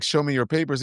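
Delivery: lightly voiced agent demanding papers; plain, matter-of-fact demand, lightly imitated; confronting agents' demand. ICE agents confronting an Uber driver, lightly mimicked demand. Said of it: "they're like".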